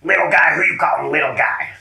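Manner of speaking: loud, indignant snap; offended raccoon. Acted. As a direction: bristle at being called little. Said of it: "And then he's like".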